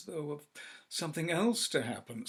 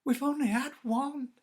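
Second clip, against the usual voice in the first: eager; 13 semitones higher, 8 dB louder than usual. Acted. Wife tells her husband of the wishes, high and loud. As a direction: press it on him urgently.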